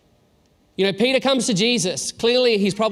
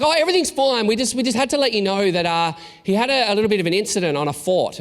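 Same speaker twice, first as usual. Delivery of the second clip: chirpy daycare worker; 3 semitones higher than usual. Retold or imitated. Daycare worker voiced on phone.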